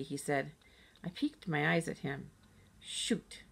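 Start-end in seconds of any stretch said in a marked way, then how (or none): 2.8-3.4 breathy whispered shoot; very quiet. Acted. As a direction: whisper it under your breath, caught out. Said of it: "I said, very quiet".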